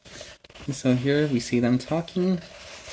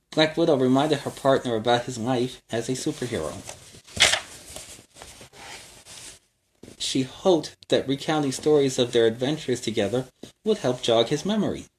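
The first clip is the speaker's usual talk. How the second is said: put-on lively read-aloud for kids; storybook narration. A narrator's reading. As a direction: tell it like a bedtime adventure. Reads story to children.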